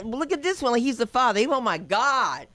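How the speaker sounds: high, loud comic shriek; hammed-up shrieking alarm; mock horror. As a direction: cry out as if appalled. Imagining the horrified reaction to baby.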